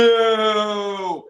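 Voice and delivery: a firm, loud, unimpressed no; loud flat no. Retold or imitated. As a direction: shut him down with one loud word. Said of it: "I can't do the voice".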